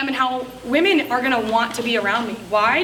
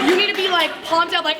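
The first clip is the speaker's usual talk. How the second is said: pumped up; 3 semitones higher than usual. Shown as a demonstration. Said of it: "tap into your inner, like, crackhead cheerleader".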